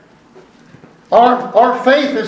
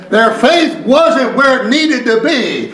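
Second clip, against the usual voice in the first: measured preacher cadence with weighty stresses; emphatic preaching; 5 semitones higher than usual. Real, not acted. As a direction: drive each phrase home to the congregation. Preaches to the congregation.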